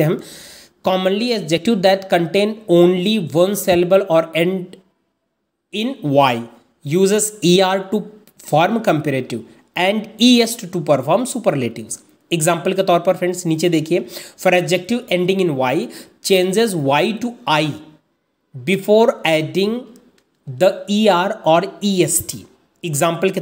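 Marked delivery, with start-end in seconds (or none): 0.9-12.0 reads the English rule out word by word, very slowly; slow dictation reading. Acted. 14.5-22.4 reads the English rule out word by word, very slowly; slow dictation reading. Acted.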